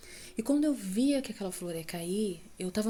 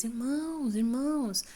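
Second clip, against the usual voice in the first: calling out; 4 semitones higher, slower than usual. Retold or imitated. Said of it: "eu gritava pra eles".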